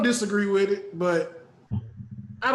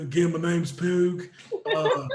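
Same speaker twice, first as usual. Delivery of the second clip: wheezy goblin. Pretend. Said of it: "kinda go like this 'cause I'm kinda round".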